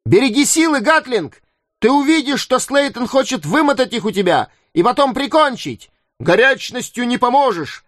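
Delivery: excited crowd shouts. Acted. Крики болельщиков вокруг боя.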